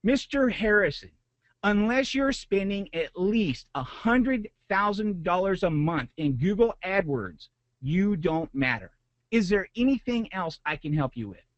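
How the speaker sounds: mock customer-service voice closing the call; cold brush-off. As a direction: imitate the rep's dismissive dead-end tone. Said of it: "this is exactly what I was told, verbatim".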